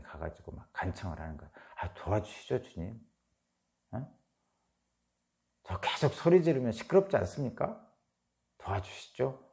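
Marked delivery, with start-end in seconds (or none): 1.8-9.4 coaxing plea. Retold or imitated. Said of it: "이렇게 말씀드리는 거죠".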